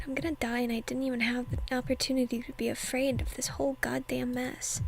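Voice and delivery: hushed whisper narrating the scene; whispered reading. Acted. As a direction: breathe the story out in a whisper.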